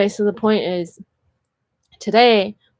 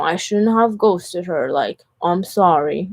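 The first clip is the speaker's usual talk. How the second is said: slow, imitated remorseful apology; drawn-out retold regret; mock apology; slower than usual. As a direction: act out a sheepish ex owning up. Voicing people who regret ghosting her.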